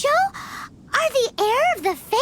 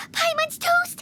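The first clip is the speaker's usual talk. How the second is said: panicked cry; 4 semitones higher than usual. Pretend. Paimon panics at threat.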